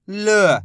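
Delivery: ल said alone as a held "luh"; sounding out letters. Shown as a demonstration. Teacher showing letter-by-letter reading, ल sounded out alone. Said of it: "एक एक अक्षर का उच्चारण करना है".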